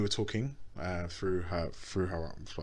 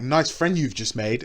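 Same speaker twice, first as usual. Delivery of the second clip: put-on sarcastic girlfriend; 5 semitones higher, 5 dB louder than usual. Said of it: "she was like".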